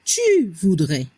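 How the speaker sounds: "tu voudrais" slow and low, ending in E; pronunciation model. Shown as a demonstration. Teacher showing learners the tú conditional, slow low "tu voudrais" ending in E. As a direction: draw out "tu voudrais", AIS sounded as E. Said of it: "La pronunciación".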